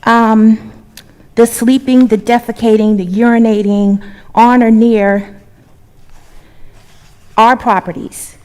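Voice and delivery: loud, forceful protest; impassioned. Real, not acted. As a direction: raise your voice in indignation. Angry resident confronting council.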